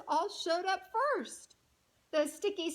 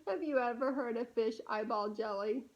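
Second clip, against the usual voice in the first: amused, quicker giggly question; laughing question; 4 semitones lower, faster than usual. Shown as a demonstration. Reader laughing with the child about eyeball jelly. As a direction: ask through a chuckle.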